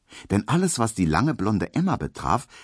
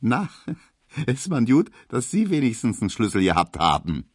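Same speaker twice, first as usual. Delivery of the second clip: amused teasing; 5 semitones higher than usual. A narrator's reading. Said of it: "lachte schon wieder".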